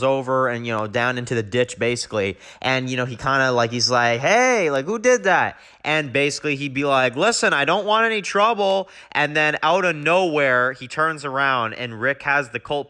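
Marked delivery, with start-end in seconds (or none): 4.2-5.6 mock startled yell; startled call out. Dwight shot off his bike. 7.1-8.9 raised, pleading voice to the unseen shooter; high and placating, hands up; lightly acted nervous plea.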